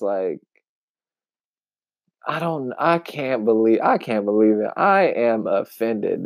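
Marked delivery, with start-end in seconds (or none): 2.3-6.2 a touch of hammed-up offense, slowing on the last line; mock theatrical. Mocking a man's theatrical claim of offense, mildly hammed-up. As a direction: imitate an overly dramatic, wounded protest. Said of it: "the way he turned and looked when he said it was so theatrical".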